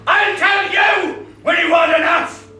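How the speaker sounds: very high, loud, stress on you; furious scream. Acted. Man attacking boys, furious scream. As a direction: hit "you" hardest. Repeated line.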